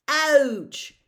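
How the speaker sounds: high, very loud yelp of pain; yell. A narrator's reading. Dean yells as a scroot burns him. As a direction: yelp like you've been burned. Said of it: "yelled Dean Thomas".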